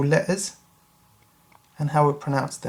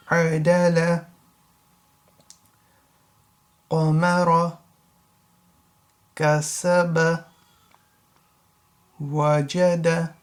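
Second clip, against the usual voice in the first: slow, careful Arabic reading; slow model reading. Shown as a demonstration. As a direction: read each word slowly, clearly. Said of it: "without the actual letters pronouncing".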